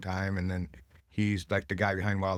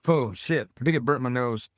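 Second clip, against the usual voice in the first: loud, rattled, eyes watering; stunned; 3 semitones higher, 6 dB louder than usual. Real, not acted. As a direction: still reeling from the sting. Smelling salts burning his nose.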